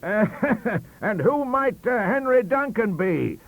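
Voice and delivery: asked. Acted. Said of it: "asked our visitor".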